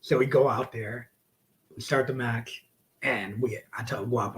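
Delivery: normal talking voice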